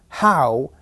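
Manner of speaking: "how" said strongly and drawn out; "how" as the stressed beat. Shown as a demonstration. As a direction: lean on the word "how". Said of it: "stressed on the first".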